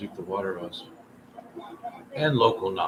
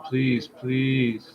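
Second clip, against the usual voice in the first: quiet pleading, please please; soft begging. Pretend. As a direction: beg gently. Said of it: "we'll put on the begging dude".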